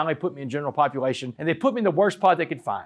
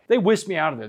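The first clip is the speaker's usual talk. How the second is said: ordinary delivery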